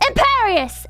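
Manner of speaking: high mock shout of a spell; Voldemort. A narrator's reading. Voldemort curses the heroine, high shout. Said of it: "but then Voldemort shouted".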